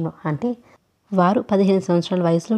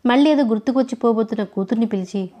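plain reading voice

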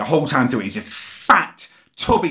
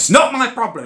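much higher, insistent jobsworth snap; mock aggressive driver; 13 semitones higher, 4 dB louder than usual. Driver refusing the buggy, higher mock aggression. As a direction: stonewall him with a mock snap. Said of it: "He keeps going aggressively now".

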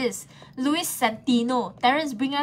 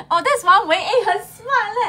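surprised gasp; 7 semitones higher, 7 dB louder than usual. Real, not acted.

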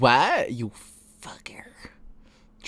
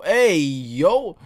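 loud, higher drawn-out exclamation; startled, stretched-out cry of disbelief; shocked outburst; 5 semitones higher, 7 dB louder than usual. Real, not acted. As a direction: blurt it out in loud, playful shock. Shocked reaction to the scene.

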